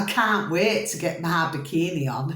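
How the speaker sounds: laughing through the line; laughing at her own bikini joke. Real, not acted. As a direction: giggle while saying it. Jokes about bikini.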